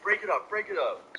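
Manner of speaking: high, urgent mock order; imitated security guard. Mall guard separating the boys, high imitated order. Guard breaking up scuffle, retold.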